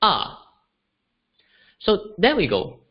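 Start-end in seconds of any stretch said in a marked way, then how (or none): 0.0-0.5 "ah" falling sharply from high; "ah" as Mandarin fourth tone, sharp fall. Shown as a demonstration. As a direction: snap "ah" down like a command. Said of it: "it sounds like".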